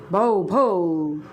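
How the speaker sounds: mock dog barking, low. Teacher imitating the puppy's bark for children. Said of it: "Like that".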